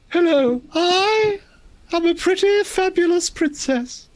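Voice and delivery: high, sweet fairy-tale princess. Pretend. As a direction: lift up into a dainty princess. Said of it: "do a princess voice".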